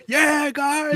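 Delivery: high, loud mock DJ shout; mock DJ hype. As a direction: hype the crowd like a cheesy DJ. Mocking a DJ hyping crowd.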